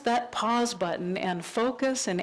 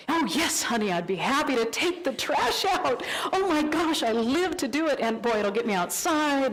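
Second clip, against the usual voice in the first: gushing eager partner; 2 semitones higher than usual. Retold or imitated. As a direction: gush like a new sweetheart who loves chores. Eager new partner voiced.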